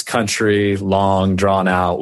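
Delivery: slow, stretched Kansas country delivery; drawn-out country talk. Shown as a demonstration. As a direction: draw it out, Kansas style. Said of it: "We talk slow".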